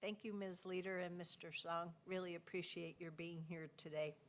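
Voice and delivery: talking around a cough lozenge; mouth full. Real, not acted. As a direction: speak with a lozenge in your mouth. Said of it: "Sorry, I have a cough lozenge in my mouth".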